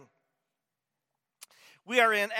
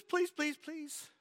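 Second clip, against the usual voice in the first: higher puppet monster pleading; Grover begging; 8 semitones higher, 4 dB louder than usual. Retold or imitated. Grover begging the reader not to turn the last page, high plea. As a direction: beg like a scared little monster. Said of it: "It says".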